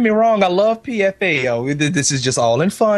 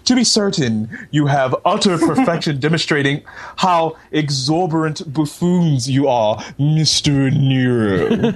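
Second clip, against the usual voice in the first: a hint of lofty period orator; lightly hammed-up formal letter reading; Renaissance painter; 3 semitones lower than usual. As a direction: read it as a mock-grand Renaissance gentleman. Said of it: "like, a seventeenth century Renaissance painter".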